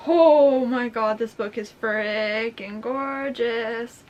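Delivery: loud, drawn-out gushing; awed excitement. Real, not acted. Vlogger admiring the gorgeous book, slow excited gush. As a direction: stretch every word in real awe. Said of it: "I am so excited".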